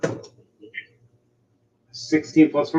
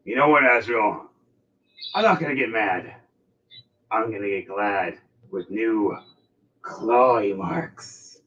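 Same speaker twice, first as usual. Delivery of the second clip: slow, drawn-out menace; mild mock anger. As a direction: savour the threat slowly. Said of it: "all angrily at him".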